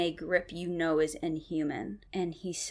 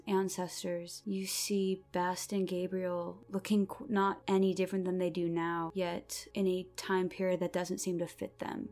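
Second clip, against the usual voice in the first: dramatic scene narration. Acted. GM narrating vision.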